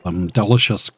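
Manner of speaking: talking while crunching crisps; mouth full. Real, not acted. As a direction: speak through a mouthful of crisps. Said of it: "Sorry about all the crunching. That's me".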